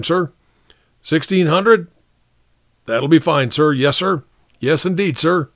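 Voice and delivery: high, eager-to-please officer; deferential captain. Acted. Captain answering the colonel on the phone, deferential. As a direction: agree readily with your superior on the phone.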